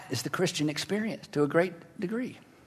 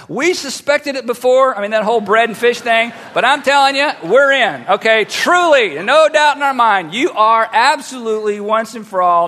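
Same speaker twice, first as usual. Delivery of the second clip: excited declaration; 5 dB louder than usual. Retold or imitated. Disciples in the boat declaring to Jesus, excited. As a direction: proclaim it like a convert.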